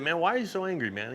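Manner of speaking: kindly, concerned man-to-man approach; being nice. Retold or imitated. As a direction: gently ask without confronting him. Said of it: "I was being nice, but I was, I wasn't, like, calling him out".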